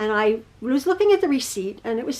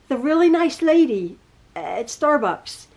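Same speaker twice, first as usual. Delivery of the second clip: incredulous; slower than usual. Retold or imitated. Mother doubting son's story.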